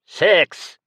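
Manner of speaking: snapped. A narrator's reading. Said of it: "snapped the Sindonian".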